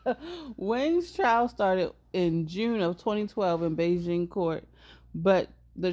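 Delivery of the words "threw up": put-on high, loud croaky old man; silly old man voice. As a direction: play a goofy granddaddy. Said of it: "put-on granddaddy voice".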